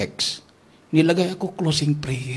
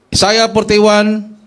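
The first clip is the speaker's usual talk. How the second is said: slow, louder reading; deliberate scripture citation; 6 semitones higher, 6 dB louder, much slower than usual. Retold or imitated. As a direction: spell out the verse slowly. Slow reference announcement.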